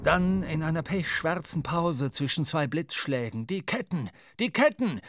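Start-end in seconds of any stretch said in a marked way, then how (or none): 3.5-4.1 urgent call. A narrator's reading. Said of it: "rief Starbuck der Mannschaft zu". 4.4-5.0 "Ketten" shouted high and loud; loud alarmed call. A narrator's reading. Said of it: "rief Starbuck der Mannschaft zu".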